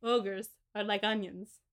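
put-on slow, half-hearted Shrek accent; poor attempt at Shrek's accent; bad Shrek accent. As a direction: try a Shrek accent and botch it. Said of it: "That was not a good accent at all".

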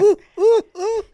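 high, loud cooing; excited squeal. Retold or imitated. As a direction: coo with delight. Thrilled watching episode.

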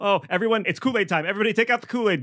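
a rat cult leader losing faith before the floating hero; panicking cult leader. Acted. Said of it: "the cult leader looks up and is like".

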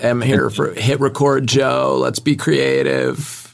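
lazy fried voice; vocal fry. Retold or imitated. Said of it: "vocal fry where he's just like".

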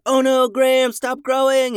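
high, loud panicked cry up to a giant; frantic neighbors shouting. Retold or imitated. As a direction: yell up in alarm.

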